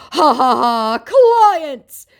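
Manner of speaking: high, slow Nigerian Pidgin jeer; mock the scammer in Nigerian Pidgin. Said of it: "going into pidgin".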